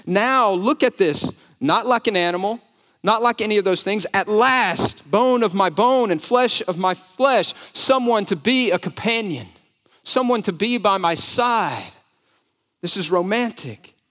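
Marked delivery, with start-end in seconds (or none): 0.1-11.9 emphatic joy. Acted. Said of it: "It's like there's exclamation points".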